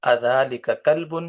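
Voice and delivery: careful, slow Arabic model reading; slow Arabic recitation. Shown as a demonstration. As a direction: read each Arabic sound out slowly for the class. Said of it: "اس کو تلفظ اس کا ٹھیک کر لیں".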